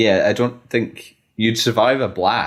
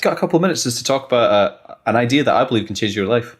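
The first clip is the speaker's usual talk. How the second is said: salesman voice; faster than usual. Pretend. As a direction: pitch it like a keen salesman. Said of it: "salesman voice on".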